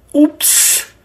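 high, small "oops"; dismayed oops. A narrator's reading. Wolf caught by returning parents, dismayed. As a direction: let out a sheepish little oops.

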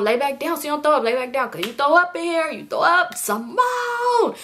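high-pitched mock fussing. Man fussing at a passenger who might throw up, mock high-pitched fretting.

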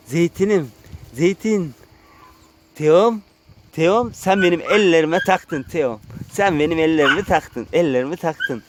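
affectionate call to an animal; pet talk. Real, not acted. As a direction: playfully address a pet by name. Talking fondly to his animals.

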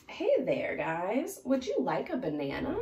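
lightly voiced eager fish offering fruit; friendly upbeat pitch; cheerful Brian.

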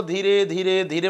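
slow, drawn-out demo of speaking slowly; teacher mockingly demos slow speaking for students; mock slow speech. Shown as a demonstration. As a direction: drag each धीरे out to show slow talking. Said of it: "आराम से बोलूँगा".

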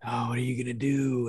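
lightly voiced fretting dad; understated mock panic; imitated freaking-out dad. Dad asking daughter for a solution, mildly panicked imitation. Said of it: "freaking out".

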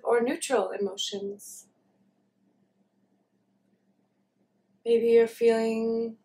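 calm meditation guidance with long pauses; unhurried, leaving long silences between phrases; guided meditation. Real, not acted. Leads a meditation.

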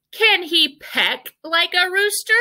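high-pitched bossy hen voice. A narrator's reading. Bossy hen testing the owl, high demanding voice. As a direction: challenge them like a bossy hen. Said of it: "said one bossy hen".

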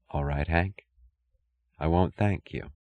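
near-whisper, holding back emotion; soft whisper. A narrator's reading. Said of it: "She whispered".

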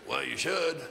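lightly voiced old preacher pressing the point. Barnes voiced in the retold talk.

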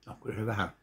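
ordinary talk

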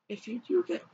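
cracked, failing voice; voice cracking. Real, not acted. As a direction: voice breaking and catching. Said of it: "I just lost my voice".

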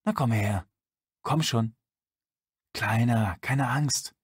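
man in the tunnel gently coaxes a frightened puppy; tender, coaxing. A narrator's reading. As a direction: coax gently from the dark. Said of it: "zärtlich, lockend".

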